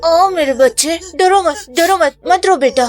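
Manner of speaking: put-on soothing a child. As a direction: comfort a frightened little one. Mother soothes a crying child.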